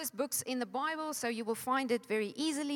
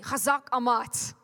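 war cry; 4 dB louder than usual. Shown as a demonstration. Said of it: "that's my war cry".

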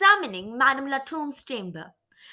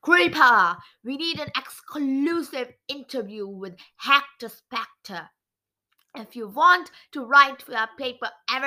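booming voice; 3 semitones lower than usual. Acted. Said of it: "The booming voice of Edward Squeaker".

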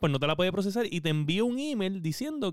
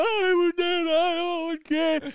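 panicked whine; 14 semitones higher, much slower than usual. Retold or imitated. Retelling his panic at the computer.

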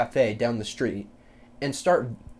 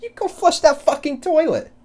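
much higher, much louder shout cracking into a laugh; hammed-up parent losing it at the kid; mock furious yell; 13 dB louder than usual. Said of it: "you're gonna be like".

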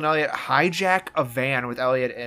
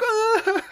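high-pitched mock wail with a laugh; imitated cry. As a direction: wail high, jokingly imitating a crying boy. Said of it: "Elliot starts to cry".

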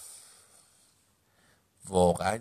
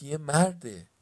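loud, higher cry of discovery; shouted alarm; 5 semitones higher, 7 dB louder, slower than usual. A narrator's reading. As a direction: call it out to the others. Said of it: "رایان فریاد زد".

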